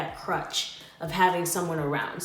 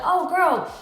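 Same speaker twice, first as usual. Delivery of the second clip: casual retold question; 2 semitones higher than usual. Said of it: "casually, like, I'm just like".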